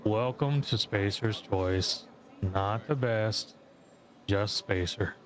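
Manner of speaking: slow, glum shop greeting; depressed mascot. Retold or imitated. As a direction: welcome them with no joy at all. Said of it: "super depressed anytime you buy stuff".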